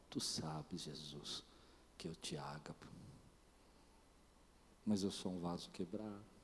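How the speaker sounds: nearly whispered contrite reply. Retold or imitated. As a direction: confess it with a broken, quiet voice. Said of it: "eu imagino que ele fique contrito".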